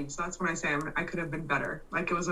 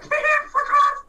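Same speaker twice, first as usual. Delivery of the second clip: much higher, louder yell through a laugh; laughing mock shout; 8 dB louder than usual. Telling a friend how she'd answer her boss, laughing mock shout. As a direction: fire it back as a laughing outburst. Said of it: "that I'm gonna be like".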